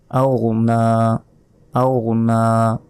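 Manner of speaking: আও stretched with nasal hum; nasal ghunna. Shown as a demonstration. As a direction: hold the nasal sound in আও. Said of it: "আগনা নয়, আও না".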